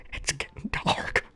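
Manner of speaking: breathy, hammed-up last-breath whisper; mock deathbed whisper, slow; fake dying whisper. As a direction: fade out like the lights are going. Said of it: "the stupid, um, like, fake death".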